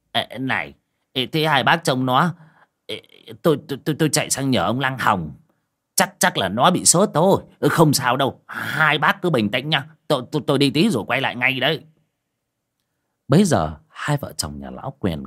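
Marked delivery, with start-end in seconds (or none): 0.1-11.8 a hint of a higher, flustered old man; flustered neighbor. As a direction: stammer quickly, hurrying away. Neighbor hurries off for help.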